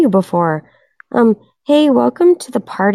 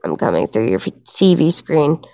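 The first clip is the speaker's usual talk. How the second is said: The Ring ghost; 7 semitones lower, 3 dB quieter than usual. Pretend. To the chat while imitating the Ring girl, a low hint of a creepy ghost. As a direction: creep toward them like the girl from the TV. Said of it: "we're doing The Ring right now".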